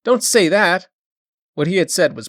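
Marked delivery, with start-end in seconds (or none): 0.0-0.9 pleading cry. A narrator's reading. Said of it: "she wailed".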